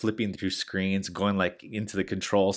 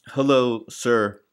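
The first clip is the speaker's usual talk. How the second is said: scam caller; 5 dB louder than usual. Retold or imitated. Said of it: "they'll say something like".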